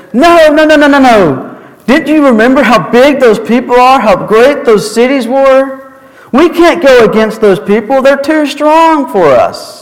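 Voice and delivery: high, frantic no no no; panicked protest. Retold or imitated. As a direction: protest in alarm, pitch up. Frightened spies protest.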